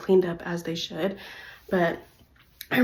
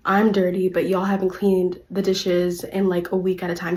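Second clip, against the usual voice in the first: speaking loud; 3 dB louder than usual. Retold or imitated. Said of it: "speaking loud so that they could hear me".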